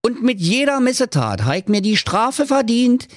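a dead partner come to warn; ghostly business partner giving a warning. A narrator's reading. Ghost warns miser.

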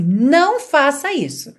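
sharp, loud scolding; angry mother. Shown as a demonstration. Angry mother scolding her son, loud and firm. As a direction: stop the kid cold. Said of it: "uma mãe muito brava".

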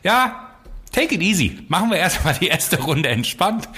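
high, easygoing coach voice; relaxed trainer. Retold or imitated. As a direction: mimic a laid-back trainer calming you. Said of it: "weil er sagt jetzt immer so".

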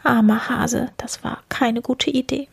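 high-pitched little squirrel. A narrator's reading. One squirrel pities the hare, small high voice. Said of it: "das eine sagt".

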